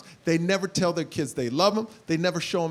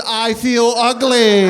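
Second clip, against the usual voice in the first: whiny self-pity; 3 semitones higher, 10 dB louder, much slower than usual. Retold or imitated. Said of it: "I texted all my friends".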